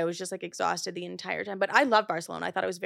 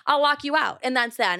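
louder, higher threat; heated threat; 3 semitones higher, 5 dB louder than usual. Retold or imitated. Threatening to lock her sister out of the Airbnb, heated.

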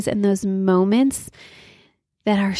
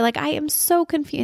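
high-pitched retold exasperation; frustrated bafflement; 7 semitones higher than usual. Mother baffled by her son's behavior, frustrated. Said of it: "being so frustrated".

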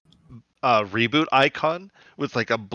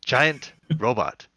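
deadpan; slower than usual. Retold or imitated. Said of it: "Says it with a complete straight face".

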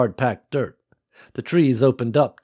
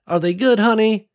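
put-on strong clear old woman; 11 semitones higher, 6 dB louder than usual. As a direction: call out warmly like a grandma. Old farm woman speaks.

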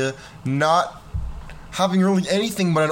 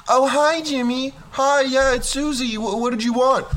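high, breathless mock girlish voice; excited girl; 9 semitones higher than usual. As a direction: play a thrilled teen girl picking up the phone. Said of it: "she'd come running over and be like".

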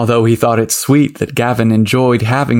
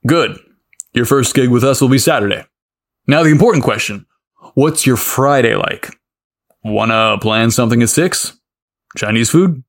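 sweetly. Acted. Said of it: "he asked sweetly".

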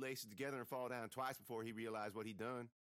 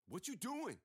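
snarled; 11 semitones higher, slower than usual. A narrator's reading. Jimmy to the girl, a mild mock snarl. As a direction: snap it at her like a bully. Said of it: "Jimmy snarled".

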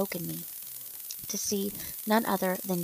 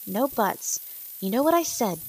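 loud, raised motherly command; stern order, higher and louder; 3 semitones higher, 7 dB louder than usual. A narrator's reading. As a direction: shut down the argument firmly. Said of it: "Jo commanded".

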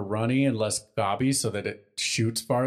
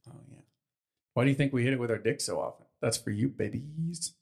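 soft seductive voice; 5 dB quieter than usual. Acted. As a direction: purr it softly to the listeners. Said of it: "you like to talk so soft".

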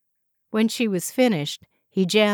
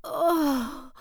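gasp; 8 semitones higher than usual. A narrator's reading. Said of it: "she gasped".

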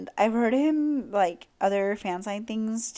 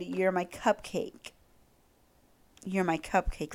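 soft swoony quote; 4 dB quieter, slower than usual. Retold or imitated. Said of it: "He said".

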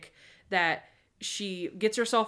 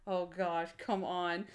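impatient; 2 semitones lower, 6 dB quieter, slower than usual. Retold or imitated. Captain checking his watch during endless song, muttered impatience. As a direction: mutter it under the breath, fed up. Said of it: "looking at his watch".

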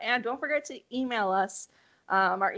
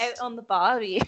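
put-on Australian accent. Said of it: "I can't do a voice".

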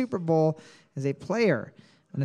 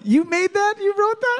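surprised; 13 semitones higher, 3 dB louder than usual. Real, not acted. Mock disbelief at friend.

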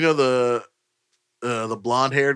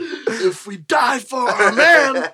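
laughing quote; 10 semitones higher, 5 dB louder, much slower than usual. Retold or imitated. Quoting Office speech, laughing.

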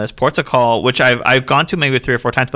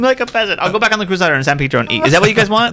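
elitist snob voice; 8 semitones higher than usual. Pretend. Mocking rich snob on yacht.

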